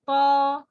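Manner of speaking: طا intoned on a short level hold; two-count vowel. Shown as a demonstration. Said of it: "طا, it's two".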